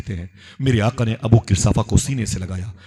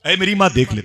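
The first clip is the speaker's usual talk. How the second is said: high, imploring call to mother; acted high-pitched entreaty; pleading son; 9 semitones higher than usual. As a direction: beg her in a lifted voice. Son begs his mother.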